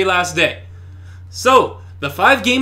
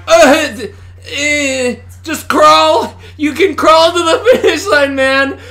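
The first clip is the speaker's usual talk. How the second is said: talking through laughter; laughing; 6 semitones higher, 4 dB louder, slower than usual. Real, not acted. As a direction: laugh while you say it. Laughing at crawling character.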